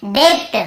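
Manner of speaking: "डेप्ट" with a B/P stop before T; B pronounced. Shown as a demonstration. Teacher asks how we'd read without the rule, "डेप्ट" with B sounded. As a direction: sound the B in "डेप्ट", debt as deb-t. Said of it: "ये नहीं होता तो हम कैसे पढ़ते".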